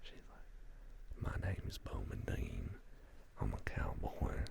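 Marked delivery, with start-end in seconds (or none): 1.4-4.4 lightly imitated Southern cowboy accent, whispered; country accent. Host imitating a viewer's cowboy line in a whispered country accent. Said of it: "in a country accent".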